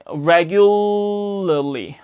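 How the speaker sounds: exaggerated slow "regu-llly"; slowed pronunciation demo. Shown as a demonstration. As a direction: draw "regularly" out slowly, tongue tip barely releasing. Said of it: "끝만 살짝 뗐다 붙이는 느낌이에요".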